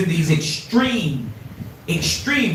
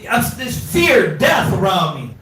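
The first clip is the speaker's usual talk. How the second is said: mock raised voice. Wife telling violent husband off.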